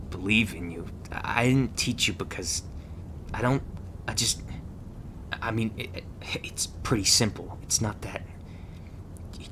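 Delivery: halting, stammered false starts; mildly embarrassed, fumbling for words; flustered. Acted. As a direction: brush off the thanks awkwardly and hurry the goodbye. Acted flustered instructor dismissing grateful rookie.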